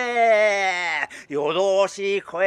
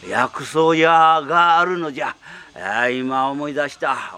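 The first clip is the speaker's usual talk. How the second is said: put-on creaky wise old man; 5 semitones lower than usual. Dying tengu begs for herb.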